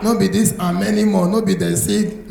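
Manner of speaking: normal talking voice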